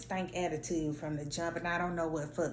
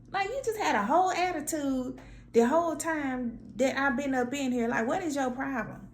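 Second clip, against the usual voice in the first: exasperated rant; 10 semitones higher than usual. Retold or imitated. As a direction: tell him off, fed up. Retold exasperated rant at man.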